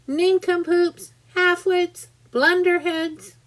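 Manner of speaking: high, loud insult yell. A narrator's reading. Centipede yelling insults at the cloudmen, loud and high. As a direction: hurl it at them at full voice. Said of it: "yelling at the cloudmen as loud as he could".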